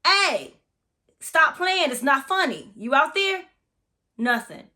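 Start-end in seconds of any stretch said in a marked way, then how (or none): 0.0-3.5 raised, annoyed call; upset call. Retold or imitated. Scolding whoever is hiding in the house, upset. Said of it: "Now I'm getting upset".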